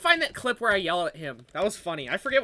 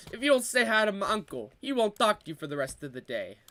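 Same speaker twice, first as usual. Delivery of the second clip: lightly done Italian-American guy; imitated Italian accent.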